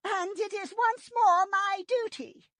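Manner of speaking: high, weary voice cracked with grief; tired sad voice. A narrator's reading. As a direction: speak as a leader worn down by loss. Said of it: "Her voice was tired and cracked with sadness".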